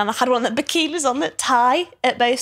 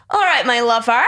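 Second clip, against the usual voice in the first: mock Bristol accent; 4 dB louder than usual. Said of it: "imitated him straight to his face and I was making fun of his accent".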